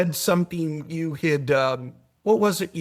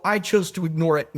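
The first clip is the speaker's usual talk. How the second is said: firm emphasis on "I"; stress on I. Real, not acted. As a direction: press the word "I" in "I chose". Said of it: "I'm emphasizing my own free will".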